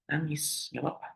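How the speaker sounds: tender and hushed; gentle reassurance. Real, not acted. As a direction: comfort them quietly, drawing the words out. Comforting someone who wants to cry.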